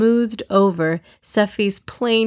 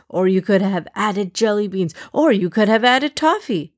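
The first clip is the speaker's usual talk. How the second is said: rambling excitedly. Acted. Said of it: "trailed off, talking to himself".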